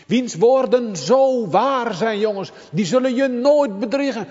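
high, loud, urgent pulpit voice; preaching at full force. Acted. Preacher urging the congregation, loud and high. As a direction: press it home to the congregation.

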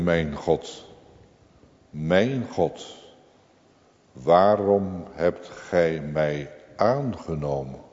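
hushed, slow, amazed at undeserved grace; wondering question. Retold or imitated. Believer asks God in wonder why he was accepted, hushed. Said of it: "die vraagt vol verwondering".

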